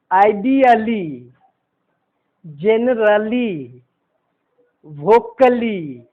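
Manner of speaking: "आइडियली", "generally", "vocally" with a full a-lee ending; sounded A. Shown as a demonstration. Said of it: "इसमें उच्चारण हुआ".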